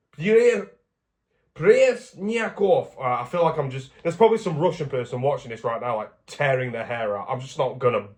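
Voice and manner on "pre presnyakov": false start, then "Presnyakov" drawn out high and very slow; high, effortful sounding-out of "Presnyakov"; laboured pronunciation attempt. Real, not acted. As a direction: stretch each syllable of "Presnyakov", keeping the S. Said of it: "I missed out the S".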